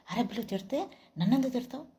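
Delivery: mock angry comeback in a put-on voice; imitated snapping back. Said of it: "వాడు తిరిగి తిట్టిండు".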